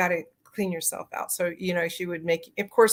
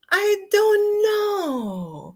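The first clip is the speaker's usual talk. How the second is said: much higher, very slow, voice breaking with real emotion; choked up; 13 semitones higher, much slower than usual. Real, not acted. Recalling beloved grandma's answer, choking up. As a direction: near tears as she voices grandma. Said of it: "I kinda feel like I'm gonna cry".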